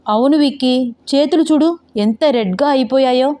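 plaintive complaint. Acted. Rider shows friend her red hands, plaintive complaint. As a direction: complain for a little sympathy.

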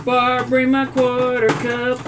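slow, drawn-out call; mock summons, held long. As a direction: call for someone, stretching each word. Calls to Barb for the cup.

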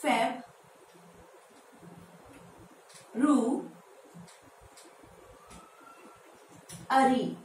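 "फेब रू अरी" in three separated chunks; correct syllable breakdown. Shown as a demonstration. Teacher teaching the month name, broken into syllables. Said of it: "इसको pronounce करेंगे".

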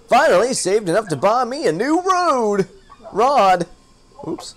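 lightly voiced folksy fisherman; a hint of a salty old sailor. Fisherman handing his old rod to the newcomer, light folksy voice. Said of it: "It's hard to talk like that".

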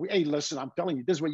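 mock New York Cockney; bad New York accent. British actor attempting American talk, mock New York accent. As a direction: imitate a Brit doing New York. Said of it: "that accent to them when they do it".

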